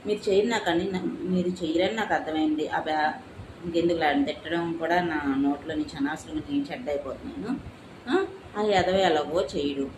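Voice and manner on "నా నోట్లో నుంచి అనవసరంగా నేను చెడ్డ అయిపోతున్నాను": lower, softer voice cracking with real crying; crying in the middle of her complaint; breaking into tears. Real, not acted. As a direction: let the tears break through the words. Bitter rant at relatives.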